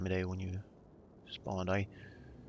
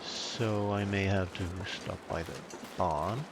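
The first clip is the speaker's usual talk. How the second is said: a dry, mock-formal British accent; dry British accent, lightly put on; 3 dB quieter than usual. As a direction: play the stiff British gentleman, deadpan. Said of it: "my very dry British accent".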